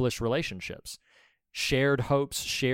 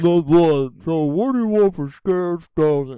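mouth full; 5 semitones higher, 11 dB louder, slower than usual. Acted. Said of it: "With a full mouth".

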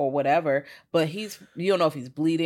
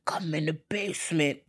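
eerie whisper. Retold or imitated. Whisper voice in the movie.

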